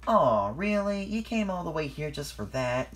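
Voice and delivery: sugary and grateful; sweet. A narrator's reading. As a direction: say it sweetly, lifting the pitch on "really". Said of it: "said Mavis sweetly".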